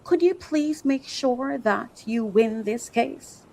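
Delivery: soft, slow, meek request; mock the timid client, slowly; mock meek request, softly spoken; timid plea. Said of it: "you expect me to come and say what".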